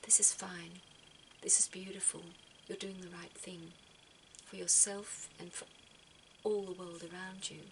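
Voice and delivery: soft, reassuring whisper; a calm inner voice whispering comfort; soul whispering. Pretend. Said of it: "your soul is saying".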